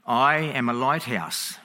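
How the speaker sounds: slow, unhurried and matter-of-fact; calm reply. Acted. Lighthouse keeper calmly answering the angry captain, slow and steady. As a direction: let the punchline land calmly and slowly. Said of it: "Back comes the calm reply".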